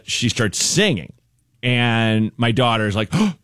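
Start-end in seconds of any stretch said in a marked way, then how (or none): 3.1-3.3 mock toddler delight. Toddler thrilled, quoted.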